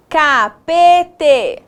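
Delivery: "Capete" in separate, stretched syllables; deliberate, syllable-by-syllable "Capete"; sounding out. Shown as a demonstration. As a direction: test "Capete" piece by piece. Teacher testing made-up word.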